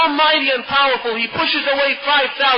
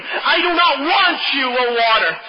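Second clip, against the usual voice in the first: defiant refusal; 4 semitones higher than usual. Retold or imitated. Hero rejects the water.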